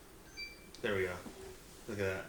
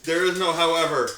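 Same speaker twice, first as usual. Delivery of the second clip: megalomaniac rant; 5 dB louder than usual. Pretend. Boasting after winning.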